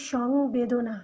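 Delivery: সংবেদনা said slowly, each syllable spelled out clearly; careful pronunciation. Shown as a demonstration. Teacher showing students how to say the word, slow and careful. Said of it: "এই যে দেখো".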